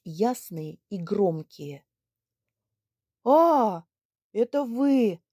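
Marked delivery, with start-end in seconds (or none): 3.2-5.2 put-on loud old man's hail; gruff greeting. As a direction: greet him loudly as the old man. Old man greets loudly. (громкое приветствие старика)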